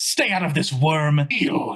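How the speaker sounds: villainous voice with an echo. Voicing a foe in combat for the players: echoing villain voice. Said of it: "his voice echoes and his eyes flare".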